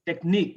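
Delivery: technique with the weight on "nique"; techNIQUE, second syllable stressed; stress on final syllable. Shown as a demonstration. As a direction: lean on the ending of technique. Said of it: "Stress, ick".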